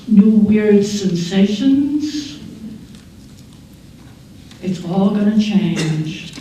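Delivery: emphatic, stretching out the list of changes; lightly voiced Mother Nature. Mother Nature handing adolescence to a child, lightly voiced decree. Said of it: "old Mother Nature says".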